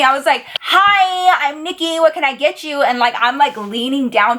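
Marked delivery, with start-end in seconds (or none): 0.6-2.8 projecting over music. Acted. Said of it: "the music was loud".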